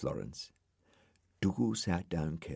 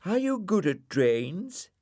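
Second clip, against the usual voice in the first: Florence voice; 12 semitones higher, 3 dB louder than usual. Acted. Florence character voice.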